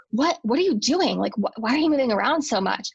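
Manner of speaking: imitating a husband's irritated questions; lightly voiced exasperation; mildly annoyed husband. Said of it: "my husband's starting to get annoyed".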